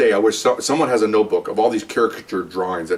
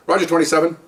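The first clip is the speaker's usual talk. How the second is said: higher-pitched dispatcher reply; dispatcher's acknowledgement; 5 semitones higher than usual. Retold or imitated. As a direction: answer the radio call, pitched up. Acts dispatcher answering the car.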